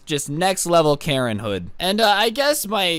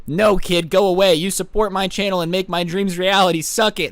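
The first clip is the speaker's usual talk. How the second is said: louder, mock-indignant send-off; mock dismissal; 3 dB louder than usual. YouTuber mockingly turns away a young fan, mock dismissal. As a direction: shoo the kid off in exaggerated rejection.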